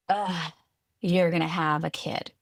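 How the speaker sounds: a flat, sour Ugh and a disapproving tone; disgusted groan. Retold or imitated. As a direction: sound disappointed with the news. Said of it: "It was this like".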